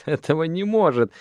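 выше и громче, со смешком; засмейся без веселья, не веря; безрадостный смех. A narrator's reading. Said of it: "Шана рассмеялась". (Шана не верит Арафу: смеётся без веселья, выше и громче)

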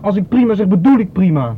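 angry. Real, not acted. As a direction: bite back at the nagging question. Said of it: "maak je niet kwaad". (boos en luider, geïrriteerd aandringend)

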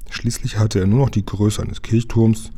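plain reading voice

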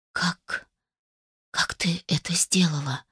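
hushed, breathless whisper of a man stunned; barely audible whisper. Acted. Stan, amazed, asks her in a near-silent whisper. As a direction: breathe it out almost soundlessly. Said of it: "прошептал чуть слышно".

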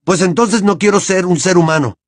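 roaring. A narrator's reading. Harry roars at the headmaster, understated. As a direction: throw the words back in anger. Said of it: "rugió Harry".

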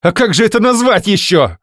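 high, loud hysterical shout; wife shrieking at husband in hysterics; hysterical cry. Acted. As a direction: scream it at him, losing control. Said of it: "выкрикнула Арина истерично".

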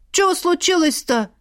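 high-pitched timid maid; timid fearful question. A narrator's reading. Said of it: "боязливо спросила она". (боязливо, высоким голосом)

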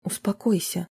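composed, held-back reply; calm reply hiding tension; restrained. Acted. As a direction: keep it tight and controlled. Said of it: "сдержанно ответила Марина".

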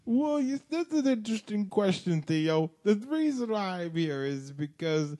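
Bill Cosby impression. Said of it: "Mister Cosby's had quite".

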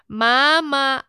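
put-on a child wailing for her mother; crying call. Child in the kitchen wails for mom, crying call.

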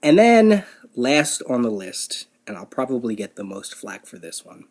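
usual speaking voice

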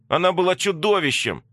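sharp, high, loud cry; shouted. Acted. Masha shouts back at Katya, high and loud. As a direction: hurl it back at her. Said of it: "крикнула Маша".

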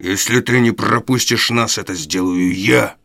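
a mild growl from Sikes. Acted. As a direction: growl it down at the girl. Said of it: "рычал Сайкс".

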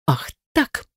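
mock hissing retort; hissed. A narrator's reading. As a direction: spit it out under the breath. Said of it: "прошипел Назар".

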